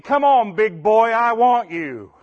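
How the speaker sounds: slow sultry hen voice; turkey voice. Retold or imitated. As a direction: coo it like a hen. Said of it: "But in turkey voice".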